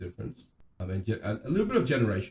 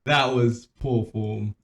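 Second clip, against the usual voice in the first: loud, amused telling-off; laughing mock scolding; 7 dB louder than usual. Real, not acted. Co-host ribbing friend over his pronunciation, laughing mock reproach. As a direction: scold him playfully, starting in a laugh.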